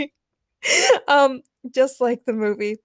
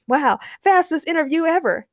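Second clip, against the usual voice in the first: light high-pitched quip; playful acted wisecrack; quipping; 6 semitones higher than usual. A narrator's reading. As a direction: toss it off as a joke, pitched up. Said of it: "quipped Daniel".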